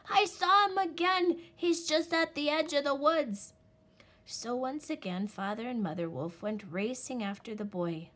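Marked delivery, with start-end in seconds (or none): 0.1-3.5 excited cry. A narrator's reading. Little Wolf alerts his parents, excited high cry. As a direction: cry it out like big news. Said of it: "he cried".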